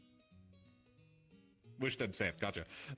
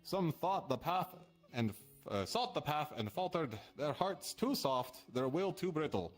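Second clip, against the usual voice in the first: slow, measured riddle reading; slow verse reading; slower than usual. Acted. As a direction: read it like an ominous prophecy. Reads cryptic riddle verse aloud.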